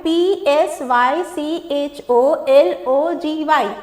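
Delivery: slow, measured letter-by-letter reading; spelling out. Shown as a demonstration. Teacher reading a spelling together with learners, spelling out. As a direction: spell it slowly so learners can follow. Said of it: "आइए spelling पढ़ते हैं साथ में".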